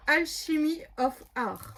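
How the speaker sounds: slow, careful French-speaker's English accent; self-mocked English accent. Real, not acted. Host reading a paper collection's name, self-mocked English accent. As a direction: show off your "super" English accent. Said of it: "vous avez entendu mon super accent anglais?".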